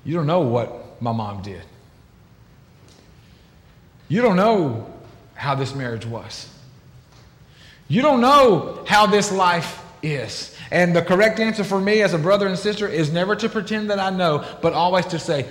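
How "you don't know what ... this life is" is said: defensive protest. Retold or imitated. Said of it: "my story goes like this".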